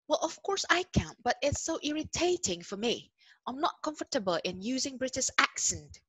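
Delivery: high, put-on British accent. Shown as a demonstration. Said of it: "can you speak British accent". (logat Inggris Britania yang dibuat-buat)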